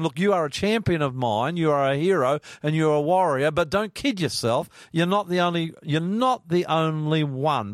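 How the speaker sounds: God giving a pep talk with a firm edge; high, firm voice of God, ends slowing; voicing God. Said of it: "He's gonna say to him".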